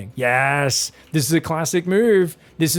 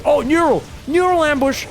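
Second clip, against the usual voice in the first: higher, louder burst of real excitement; excited outburst; 8 semitones higher, 3 dB louder than usual. Real, not acted. Caster seeing a surprise ambush, excited and higher. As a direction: call out the ambush as it springs.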